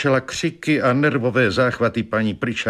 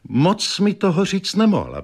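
agitated wife; 10 semitones higher than usual. Acted.

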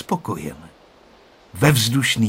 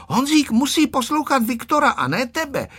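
stern voice; 13 semitones higher than usual. A narrator's reading. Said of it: "řekla přísným hlasem Tereska".

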